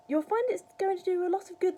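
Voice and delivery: put-on high, loud boyish assurance; encouraging. A narrator's reading. George vouching for his medicine, encouraging. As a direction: say it brightly, pitched well up.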